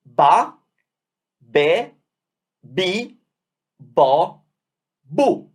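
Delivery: B with pure open vowels, one by one; Italian syllables. Shown as a demonstration. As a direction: model each syllable slowly and clearly. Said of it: "So we end up with".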